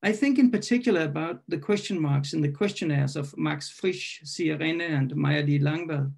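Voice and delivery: deliberate poem reading with long pauses; poetry reading. Acted. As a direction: pose each line as a question to ponder. Poem read aloud.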